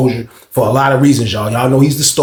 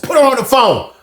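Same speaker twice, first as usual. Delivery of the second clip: loud demand; 10 semitones higher than usual. Retold or imitated. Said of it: "This nigga loud as hell".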